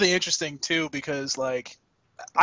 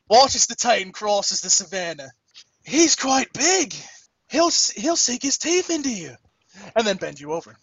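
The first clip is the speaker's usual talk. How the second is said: nature documentary; 3 semitones higher than usual. Pretend. Parody nature show narration.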